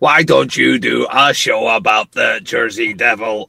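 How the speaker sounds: mock heckler shout. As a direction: yell it like a heckler. Shouted joke quote.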